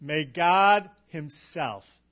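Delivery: very slow, with "himself" set apart and stressed. Shown as a demonstration. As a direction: spell out the weight of "himself", word by word. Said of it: "The emphasis is on himself".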